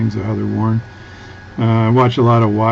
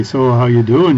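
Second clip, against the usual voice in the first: put-on Fargo Minnesota accent; 4 dB louder than usual. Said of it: "and they say".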